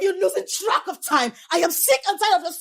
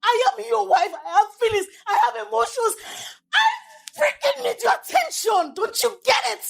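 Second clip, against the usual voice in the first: shouting wife; 4 semitones higher than usual. Acted. Wife demanding her husband's attention, shouting. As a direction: yell it out, voice climbing. Wife yelling about neglect.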